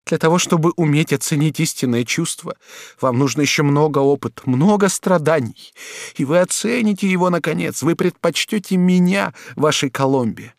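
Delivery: wounded duchess lashing out; broken angry voice. A narrator's reading. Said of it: "сказала ему прерывающимся голосом". (прерывающимся от гнева голосом)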